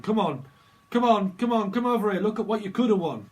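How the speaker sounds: loud, high game show host hype; hammed-up quiz host luring a losing contestant; Bob Holness host voice. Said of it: "a little bit like Bob, Bob Holness".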